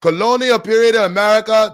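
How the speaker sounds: loud, high accent take that slips on "America"; mock African accent, slipping. Shown as a demonstration. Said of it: "that America was off right there".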